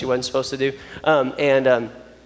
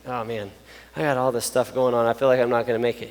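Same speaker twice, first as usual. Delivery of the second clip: mildly weary, lower-pitched reply; discouraged; 4 semitones lower, 4 dB quieter than usual. Acted. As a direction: own up to feeling overwhelmed, lightly acted. Acts out weary reply to Jesus.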